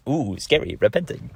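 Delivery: playful pretend dread; mock fear. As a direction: tease it as something scary. Mocking repentance as scary.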